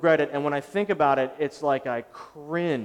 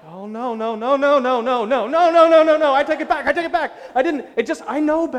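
much higher and louder, frantic "no, no, no"; panicked take-back; 11 semitones higher, 9 dB louder than usual. Retold or imitated. Pastor pleading with the bank teller, shrill high panic. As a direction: beg to take the words back in a rising panic.

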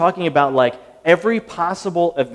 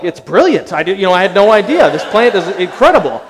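mock amazement; 4 semitones higher, 9 dB louder than usual. Mock awe at the plant.

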